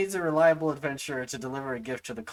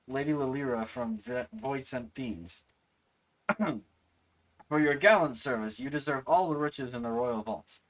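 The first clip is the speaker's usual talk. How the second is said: character voice. Acted. Reading NPC noble's thanks.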